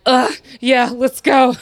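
loud, high "let's go" hype; rally yourself like an athlete; pumped-up reply. Retold or imitated. Doctor answering cheering patients, loud pumped-up hype.

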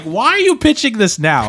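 imitating your own irritated objection; pissed off. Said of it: "I was pretty pissed about it".

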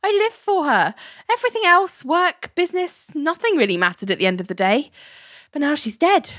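cheerfully mourning, holding back a laugh; chuckling. Retold or imitated. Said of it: "as Henry chuckles".

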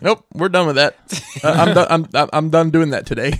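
fed-up dad voice played for laughs, giggling through it; laughing mock exasperation. Friend imitates the worn-out dad refusing the kids, laughing. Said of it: "You were like".

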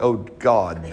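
laughing through a mock groan of dread; mock dismay. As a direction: fake horror, cracking up as you say it. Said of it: "and like".

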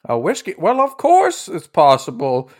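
lightly voiced lilting old lady; a hint of an obliging old hostess; old lady innkeeper. Innkeeper agreeing to fetch a whiskey, lightly voiced old lady. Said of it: "would it be possible for me".

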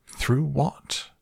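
high, alarmed-sounding question; questioning shout. A narrator's reading. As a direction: call it out high without much extra volume. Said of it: "shouted Grandpa Joe".

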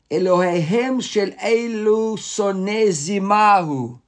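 a hint of a sly wife pleading slowly for permission; wife's scheming plea. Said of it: "Am-, Am-, Amra lo".

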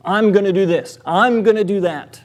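mildly hammed-up boast; big, emphatic claims. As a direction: declare it like big talk. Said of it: "emphatic claims".

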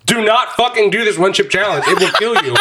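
chuckling through the warning; laughing warning. Real, not acted. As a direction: warn while laughing. Warning while laughing in pain.

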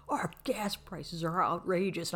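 whispered mock complaint; slow, breathy whining imitation; mock whine. Mocking East Coast complaints.

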